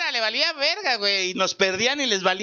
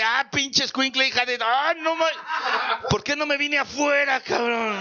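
mock fury; 3 semitones higher than usual. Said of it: "de ese odio de".

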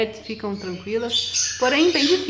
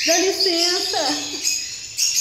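high, drawn-out mock indignation at the bird; mock indignant; 7 semitones higher, much slower than usual. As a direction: stretch out excuse me like an offended diva. Shooing the bird away.

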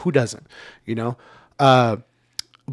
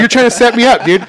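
imitating mom; 10 semitones higher, 9 dB louder than usual. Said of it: "she's like".

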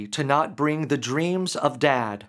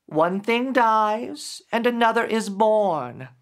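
gentle grief creature; 7 semitones higher than usual. Acted. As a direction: speak as a patient spirit revealing itself. Creature explains itself.

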